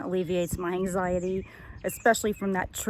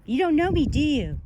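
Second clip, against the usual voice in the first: pet-talk voice; 7 semitones higher, 5 dB louder than usual. Real, not acted. Cooing at the sheep.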